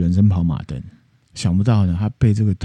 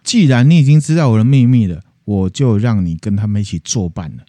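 mock menacing threat; 4 dB louder than usual. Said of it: "Bluebeard threatening wife".

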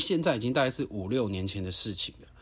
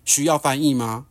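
higher, louder cutting sarcasm; retold angry retort; 4 semitones higher, 5 dB louder than usual. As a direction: taunt him with a raised angry voice. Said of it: "我就很怒地看着他说".

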